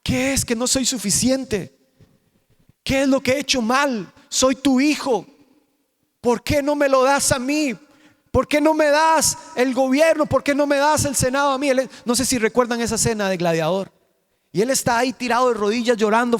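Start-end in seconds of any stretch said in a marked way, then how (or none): 0.0-11.7 mock tearful plea, climbing higher; imitated pleading son. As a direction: plead like a son begging his father, a touch of tears. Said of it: "comienza a llorar". (hijo suplicando con un toque de llanto, imitado)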